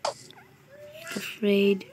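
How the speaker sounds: high slow taunt. Pretend. Repeated taunt, drawn out.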